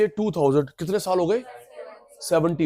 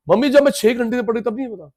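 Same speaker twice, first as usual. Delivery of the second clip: high, quick mock protest; protesting child; 5 semitones higher, faster than usual. Child answers mother after six hours of study, mild mock protest. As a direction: plead your case in a hurry, pitched up.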